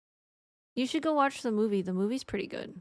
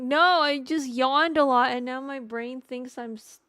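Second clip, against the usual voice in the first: protesting; 3 semitones higher, 7 dB louder than usual. Retold or imitated. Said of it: "And I'm like".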